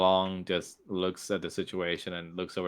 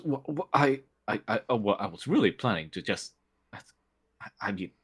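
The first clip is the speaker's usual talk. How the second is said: stumbling, caught-out sputter; nervous half-hearted protest; flustered stammer; 3 semitones higher, faster than usual. Acted. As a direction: trip over every word, lost for an answer. Shapir stammers when rebuffed.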